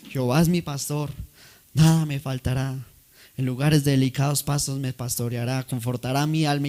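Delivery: smooth, polished actor reciting a psalm; eloquent recital. Acted. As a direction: recite it like a proud stage actor. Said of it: "tenía una elocuencia". (recitación elocuente de actor)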